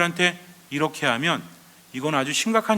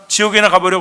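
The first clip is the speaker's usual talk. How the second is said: loud, higher-pitched acted insult; mock curse; 4 semitones higher, 10 dB louder than usual. Misunderstood foreigner to a Greek, loud mock curse.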